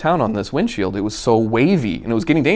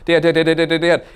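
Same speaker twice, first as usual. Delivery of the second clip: put-on panicked kid; 6 semitones higher, faster than usual. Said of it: "starting to get a little panicked".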